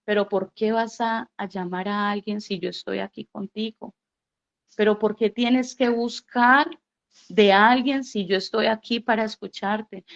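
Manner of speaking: soft, hushed, tender voice of God. Retold or imitated. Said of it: "una voz que me decía". (voz de Dios suave y tierna, más baja)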